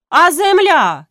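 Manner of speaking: high, loud bawl. A narrator's reading. Grytsko bawls at the meeting about the land. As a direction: bellow it as a protest. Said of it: "желапіє Грицько".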